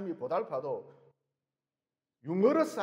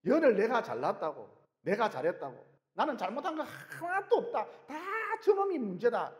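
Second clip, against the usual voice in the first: mocking boast; 4 semitones higher than usual. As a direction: sneer like a proud politician.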